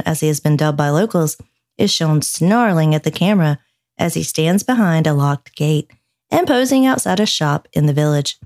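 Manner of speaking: measured news-feature narration; podcast host reading a report; news story read. Acted. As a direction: read the article out clearly, with neat phrasing.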